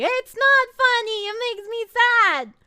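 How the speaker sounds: high, loud pouting complaint; whiny protest. Pretend. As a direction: whine that your feelings are hurt. Protests chat finding reaction funny.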